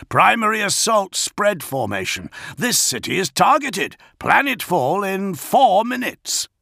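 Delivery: high, pressing battle alert; urgent report. A narrator's reading. Augustin warns of imminent planetfall, high and urgent. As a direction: call out the danger with rising urgency. Officer reports incoming attack.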